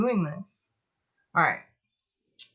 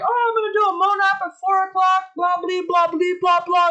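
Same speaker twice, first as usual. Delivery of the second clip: high, fast, louder mock enthusiasm; mocking oneself; 6 semitones higher, 5 dB louder than usual. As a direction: rattle off the big plans mockingly. Mocks own overambitious plans.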